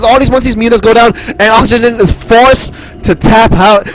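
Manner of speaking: fast, high, breathless commentary; excited play-by-play. Acted. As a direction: call the big fight like a caster. Live play-by-play, huge battle.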